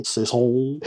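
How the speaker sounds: saison drawn out with relish; relished word. Real, not acted. Reviewer saying his favourite word, saison drawn out. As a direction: savour the word saison, stretching the end. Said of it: "my favourite word to say".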